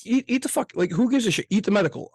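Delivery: loud, high and heated, pushing the point hard; heated outburst. Real, not acted. Friend ranting at his buddy about medical debt, loud and heated. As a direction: blast it out like you're fed up with the bills. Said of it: "I'm getting loud out here".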